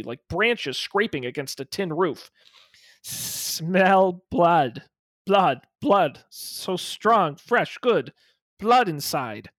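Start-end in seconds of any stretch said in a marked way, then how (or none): 3.0-9.5 thin, rough, scratchy monster whisper-rasp; rasping creature voice. Acted. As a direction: rasp it like branches scraping tin. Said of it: "a thin, rasping voice, rough and scratchy".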